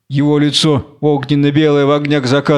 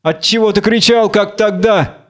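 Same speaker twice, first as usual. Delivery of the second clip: higher, probing question; suspicious; 6 semitones higher than usual. Acted. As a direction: question him with a touch of suspicion. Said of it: "Подозрительно". (подозрительный вопрос, повыше)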